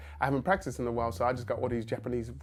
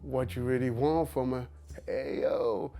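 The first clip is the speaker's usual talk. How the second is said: quoting a rapper's song; slower than usual. Retold or imitated. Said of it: "learning all of his songs".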